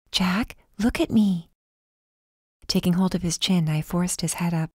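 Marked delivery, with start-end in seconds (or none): 0.1-1.5 slow and insistent, each word weighed; slow, firm plea. Acted. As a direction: make him hear you, slowly. Repeats plea, firmer.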